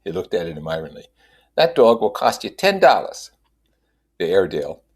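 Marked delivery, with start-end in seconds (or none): 1.5-3.3 high, loud hawker selling puppies; street dog seller. A narrator's reading. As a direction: pitch the seller up, pushing a sale. Seller voiced.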